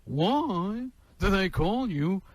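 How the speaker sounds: fast, observational whine; a quick what's-the-deal comic; Jerry Seinfeld impression. Comic doing Jerry Seinfeld for the caller, a quick riff. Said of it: "You know Jerry Seinfeld?".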